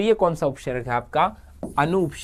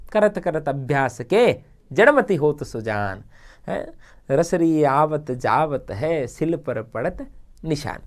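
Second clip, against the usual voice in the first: slow, measured recitation of a doha; reciting a couplet; slower than usual. Acted. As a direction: recite it like a classroom proverb.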